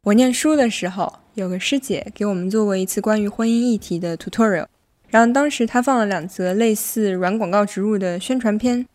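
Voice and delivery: Mandarin with a light Hong Kong accent. Real, not acted. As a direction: Zhejiang speaker using Hong Kong-style Mandarin. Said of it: "一个浙江人是怎样说香港普通话的".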